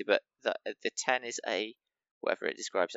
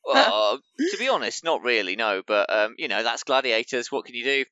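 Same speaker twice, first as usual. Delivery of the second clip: interviewed contestant; 10 dB louder than usual. Acted.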